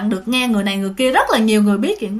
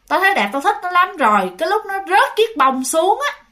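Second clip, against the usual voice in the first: possessing spirit; 4 semitones higher than usual. Retold or imitated. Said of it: "đắc thắng á".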